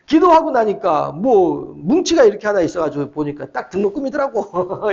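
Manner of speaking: lightly imitated folksy Jeolla friend; Jeolla dialect. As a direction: tell it in homely Jeolla dialect with amusement. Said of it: "전라도 사투리 아주 구수하게 쓰는 친구거든요".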